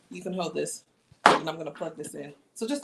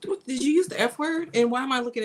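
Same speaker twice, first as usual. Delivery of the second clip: yelling across the room; 5 semitones higher, 4 dB louder than usual. Real, not acted. Scolding kid across room.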